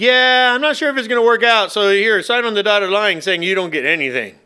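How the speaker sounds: mock hedging. Preacher playing someone handing over a prenup, mock hedging.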